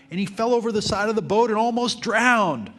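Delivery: dramatic bold line read with amusement; bold headline, laughing. Shown as a demonstration. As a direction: shout the cliffhanger with a laugh. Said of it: "in big, bold letters he'd put".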